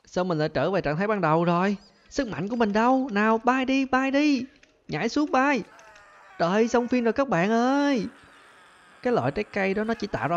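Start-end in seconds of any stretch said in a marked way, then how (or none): 2.1-8.1 much higher, frantic voice; panicked high pitch. Real, not acted. Gamer panics in a high voice as his powers vanish. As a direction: squeal as the flying fails.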